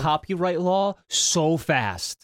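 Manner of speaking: slow laughing boast. Acted. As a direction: drag it out through laughter.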